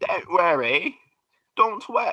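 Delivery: borrowed British accent. Trying out an accent that is hard to keep going, in a British accent. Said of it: "British. Accent".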